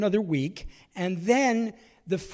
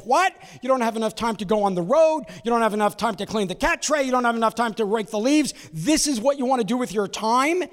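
loud, high incredulous scolding; wife berating him for running for office, loud and high; exasperated wife; 5 semitones higher, 4 dB louder than usual. Retold or imitated. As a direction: fire off the objections at him, voice climbing. Wife objecting to his campaign.

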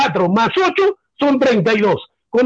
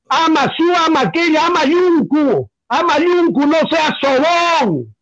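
slow recited saying; slower than usual. Retold or imitated. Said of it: "en nuestra cultura inca decía".

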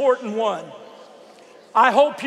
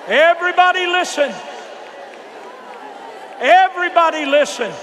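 calling out to a crowd; 4 semitones higher than usual. Real, not acted. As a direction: call over a noisy room. Calling over praying crowd.

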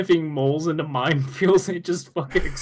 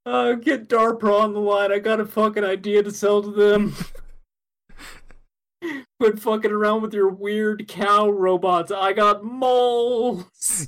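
excited pitch; 6 semitones higher, 4 dB louder than usual. Acted. Mock military pitch, calling out.

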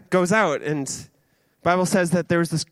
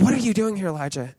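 lightly mocking question; sarcastic; 2 semitones higher, faster than usual. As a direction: question him with a touch of sarcasm. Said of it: "a bit of a sarcastic tone".

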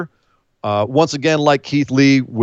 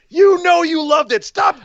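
high playful teasing shout; slower than usual. Real, not acted. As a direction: laugh at him as you tease. Teasing co-host over noise.

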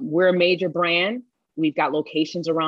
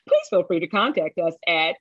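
newscaster voice. Acted. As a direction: announce it like the evening news. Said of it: "Did you like my newscaster voice?".

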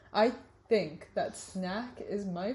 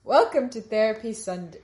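odd intonation; 7 dB louder than usual. Acted. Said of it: "Why did I say it like that?".

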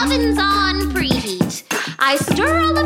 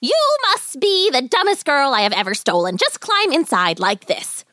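put-on exasperated old witch, swooping pitch; angry witch. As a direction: scold the child crossly. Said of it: "The witch shrieked with anger".

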